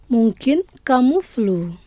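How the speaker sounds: lent, chaque syllabe bien détachée; lent et articulé. Shown as a demonstration. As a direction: dicter lentement pour la répétition. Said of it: "je vais prononcer lentement". (lentement, comme pour des élèves)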